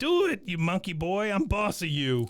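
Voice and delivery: high hillbilly bark; Wichert voice. Retold or imitated. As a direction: bark orders like a drunk redneck. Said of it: "that Wichert voice kills you".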